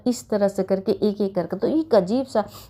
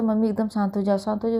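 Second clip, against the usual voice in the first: soothing son. Retold or imitated. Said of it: "मुझे आराम से बोलता".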